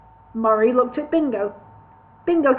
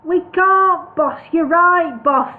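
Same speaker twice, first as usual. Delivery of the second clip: sulky; 7 semitones higher, 6 dB louder, much slower than usual. A narrator's reading. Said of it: "in a sulky voice".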